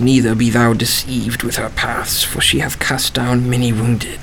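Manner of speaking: slow, solemn Bible recitation; scripture reading. Acted. Lodger reading the Bible to himself, slow and solemn. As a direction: intone the verses slowly, like a sermon.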